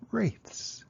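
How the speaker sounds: a spooky whisper of Wraiths. Shown as a demonstration. Teacher explaining ghosts, whispering the word spookily. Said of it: "A wraith is another term".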